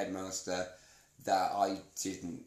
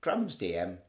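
bad Penfold impression; 4 semitones lower than usual. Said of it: "not really a very good impression of him".

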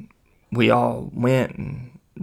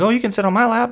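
much higher, louder piping offer; over-eager offer; 11 semitones higher, 5 dB louder, faster than usual. Retold or imitated. Trying to be a good friend, high eager offer. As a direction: jump in with a high-pitched cover-up.

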